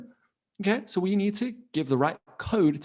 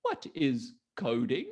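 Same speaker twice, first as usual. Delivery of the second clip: lightly voiced curious grandparent, softer and higher at first; grandparent role; 7 semitones higher, 5 dB quieter than usual. Grandparent asks the child about coding, lightly acted curiosity. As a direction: play a gently inquiring granny, slowing on the question. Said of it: "maybe a granny or a grandpa".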